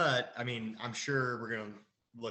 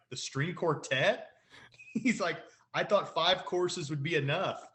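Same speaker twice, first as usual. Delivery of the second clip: lightly imitated boss, higher and louder; indignant boss; 6 semitones higher, 5 dB louder than usual. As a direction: quote the boss with mock indignation. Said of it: "when the boss is like".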